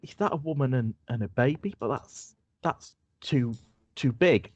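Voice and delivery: starts very high, then unsettled; uneasy Marion. Acted. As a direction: Marion peering at the strange figure, uneasy. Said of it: "she goes".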